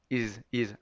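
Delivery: is said with a buzzing voiced z at the end; is, is, with a vibrating z. Shown as a demonstration. Teacher showing the buzzing z to students. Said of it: "marcar bien la Z vibrante".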